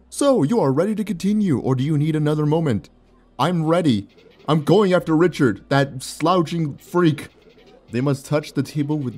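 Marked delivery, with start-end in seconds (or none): 0.1-2.9 raised, grand game-show announcer; a game-show host's announcer read. Acted. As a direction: boom it out like a quiz host. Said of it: "I could probably do my announcer voice".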